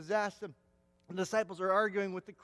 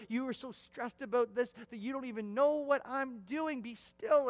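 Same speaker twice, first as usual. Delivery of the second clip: raised, higher voice calling out to busy people; God yelling; 6 semitones higher than usual. Acted. God yells at his busy, stressed people, raised and high. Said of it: "God is yelling".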